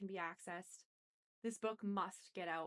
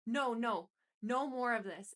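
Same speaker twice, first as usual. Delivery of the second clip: shouting; 3 semitones higher, 8 dB louder than usual. A narrator's reading. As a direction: yell it out, cutting him off. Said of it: "I shouted at him".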